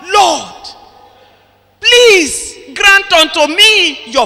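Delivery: lightly voiced anguished plea; pleading prayer. Shown as a demonstration. Preacher models the barren one's prayer, mildly pleading. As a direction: ask the Lord why, pressing. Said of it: "You are going to call on the Lord".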